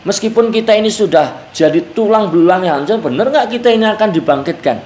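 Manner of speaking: mildly sceptical, taunting question; understated imitation of disbelieving mockery; mocking disbelief. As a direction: ask it as a doubter mildly scoffing. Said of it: "nadanya itu ngejek".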